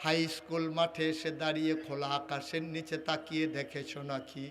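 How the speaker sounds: sung sermon, God tenderly calling the servant; lilting chant, mostly subdued; melodic preaching. Real, not acted.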